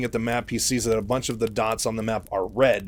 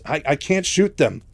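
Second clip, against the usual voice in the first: higher-pitched, faltering admission; stammering; 5 semitones higher, 4 dB louder than usual. Retold or imitated. Mike confesses he can't fire on marines, stammering. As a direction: stumble into the confession, lightly acted. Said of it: "he's stammering a bunch".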